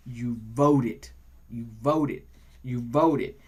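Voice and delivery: solemn low repeated vow. Retold or imitated. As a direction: land each vote like a drumbeat. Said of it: "that was Doctor Maya Angelou".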